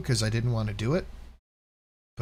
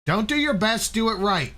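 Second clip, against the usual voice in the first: mock strict coach; 11 semitones higher, 5 dB louder than usual.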